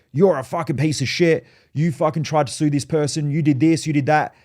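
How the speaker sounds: imitating a hostile guy's accusations; mock angry rant. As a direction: throw the accusations at him, mock-aggressive. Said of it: "And he's like".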